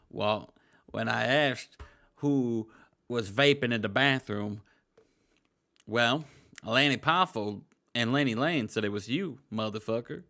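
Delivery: a hint of a scolding manager; Jim Cornette. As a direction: accuse him in a mock stern tone. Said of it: "What's Jim Cornette have to say?".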